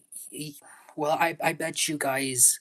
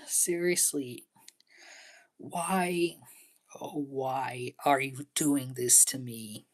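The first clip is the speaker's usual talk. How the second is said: mock heartbroken plea. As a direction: beg as if your heart is breaking, half-hammed. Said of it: "I'm just showing you how it makes me really feel".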